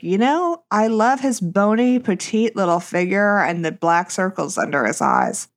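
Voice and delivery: put-on high gushing valley girl voice. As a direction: gush like a smitten teen. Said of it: "young women these days are like".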